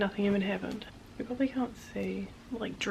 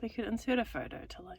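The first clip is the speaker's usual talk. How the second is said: whispering; 3 semitones higher, 5 dB quieter than usual. Real, not acted. Whispering beside sleeping Jonathan.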